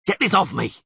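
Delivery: loud angry roar. Acted. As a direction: roar while struggling. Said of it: "he roared".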